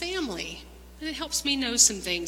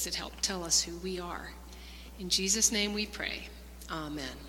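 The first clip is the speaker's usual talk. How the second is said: prayer. Acted. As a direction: pray gently over the children. Leads a closing prayer.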